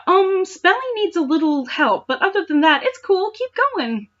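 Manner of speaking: put-on high, dopey kid reviewer. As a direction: read it like a clueless kid. Reading a review in another voice.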